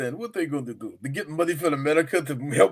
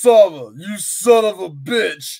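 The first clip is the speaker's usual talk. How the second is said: hammed-up Rambo shout; 6 dB louder, slower than usual. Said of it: "Rambo cornered".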